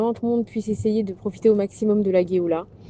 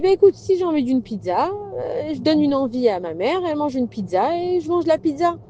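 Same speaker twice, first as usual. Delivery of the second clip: a touch higher, content little voice; hint of a small child's voice; lightly voiced baby; 6 semitones higher than usual. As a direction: play the unborn baby, happy where he is. Baby explains his life.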